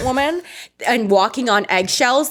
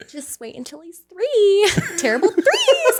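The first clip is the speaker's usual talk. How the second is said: laughing warning; 10 semitones higher than usual. Retold or imitated. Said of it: "they were like".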